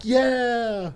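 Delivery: put-on high, drawn-out child's cheer; kids cheering. Kids in the car as the driver takes off, cheering. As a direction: imitate kids cheering from afar, long and high. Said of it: "I hear my kids like".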